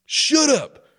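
high, slow mock-stern order with a laugh; hammed-up bodyguard shutting a fan down. Bodyguard silencing the fan, slow mock-stern order. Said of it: "his bodyguard turns and goes".

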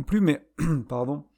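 cracking, dry voice. Real, not acted. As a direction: voice breaking from thirst. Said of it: "j'ai la voix qui déraille un peu".

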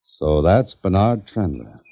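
slow, as though not believing it; doubtful. Acted. Writer sizing up the man just met, doubtful. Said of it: "As though you didn't believe it".

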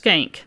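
"skank" said as one syllable; school name pronunciation. Shown as a demonstration. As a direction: say "skank" slowly and plainly. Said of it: "and it's pronounced".

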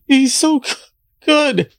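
breath catches mid-word, voice breaking; gulping air between sounds; catching breath midword. Real, not acted. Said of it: "I'm, I'm emotional".

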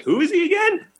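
high, ditzy imitation of the friend; mocking the friend. Teller imitating the embarrassing friend, high and ditzy. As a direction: squeak it out like the clueless friend. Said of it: "she embarrassed me".

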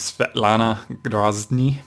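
name said in a Russian accent. Shown as a demonstration. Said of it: "I just like doing my Russian accent".

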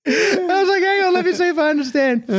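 high, laughing shout into words; howl, then squeak the words out. Real, not acted. Cracking up at son's swearing.

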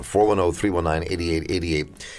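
ordinary talk

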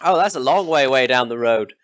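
high, brash country villager; rough villager. Acted. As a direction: greet travellers as a nosy local. GM voices a villager.

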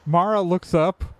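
ordinary talk, nothing marked

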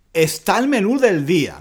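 reading the lyric. Shown as a demonstration.

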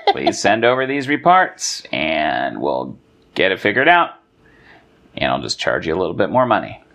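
a hint of a droll tax accountant; accountant impression. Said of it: "He's like".

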